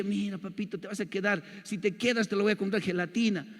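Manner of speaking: put-on sweet-talking the kid into staying, quietly; soft coaxing. Big brother coaxing his crying little brother at school, softly.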